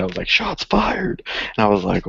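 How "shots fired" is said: pitched way up, "shots fired"; mock shocked. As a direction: sell the mock offense. Mock reaction to kid's insult.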